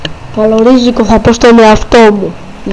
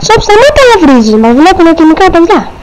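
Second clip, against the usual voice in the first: scolding; 5 semitones higher than usual. Acted. Scolding Chop for swearing.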